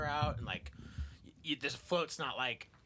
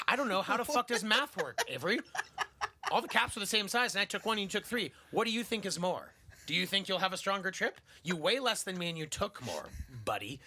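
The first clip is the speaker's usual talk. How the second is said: exasperated; 4 semitones higher than usual. Retold or imitated. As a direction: explain math to a dim friend. Exasperated reply to Avery.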